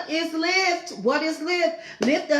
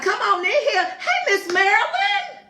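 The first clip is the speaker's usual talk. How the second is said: laughing greeting; 8 semitones higher than usual. Real, not acted. Greeting a dear viewer, laughing.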